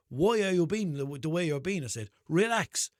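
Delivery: exasperated rebuke. Retold or imitated. Driver telling the guard to calm down, exasperated rebuke. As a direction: tell him off, as retold.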